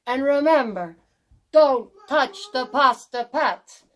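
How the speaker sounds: lightly voiced kindly witch giving chores; grandmotherly instructions, firmer on the warning; Strega Nona. Stregononia gives orders.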